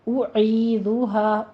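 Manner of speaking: أُعِيذُهَا with rounded lips on the first u; أُعِيذُهَا slightly slowed; tajweed pronunciation. Shown as a demonstration. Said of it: "ہونٹوں کو گول کر کیجئے".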